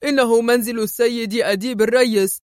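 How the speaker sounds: indignant homeowner's character voice; angry. A narrator's reading. Householder confronting searchers breaking his door, angry. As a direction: protest angrily in an altered voice. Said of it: "وهو يقول في غضب".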